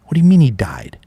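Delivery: a breathless whisper, voice gone; stunned whisper. Retold or imitated. Hearing on the phone that his best friend died, whispering in disbelief. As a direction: barely breathe it out in shock.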